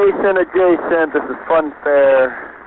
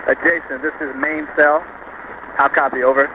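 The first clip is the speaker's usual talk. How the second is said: crackly military radio; 4 dB quieter than usual. Real, not acted. Radio call from main cell.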